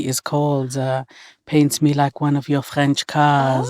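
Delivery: lightly put-on French accent. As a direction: read the title in a mock-French accent. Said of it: "don't know why I'm doing a French accent".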